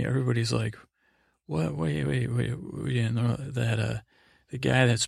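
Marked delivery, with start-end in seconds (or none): 1.4-2.9 higher-pitched mock bewilderment, settling as it repeats; stammered, baffled "hold on"; confused double-take. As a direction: act out a crowd caught off guard. Everybody reacting to shocking claim.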